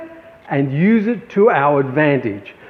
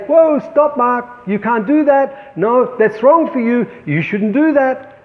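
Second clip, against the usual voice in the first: a lightly higher, alarmed warning voice; a mild mock panic holding you back; the thief's voice; 5 semitones higher than usual. The fear-thief stopping the artist from something new, lightly higher alarm. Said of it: "thief will be there to say".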